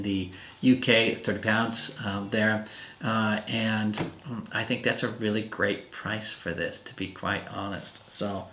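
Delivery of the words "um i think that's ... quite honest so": breathless, words running out of air; out of breath. Real, not acted. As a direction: speak short of breath. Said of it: "I'm out of breath now".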